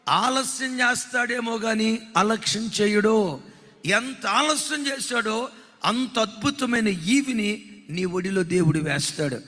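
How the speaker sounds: slow, solemn preacher's proclamation over music; slow dramatic preaching. Acted. Preacher proclaiming God's faithfulness to the congregation, slow and solemn. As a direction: draw each phrase out like a pulpit promise.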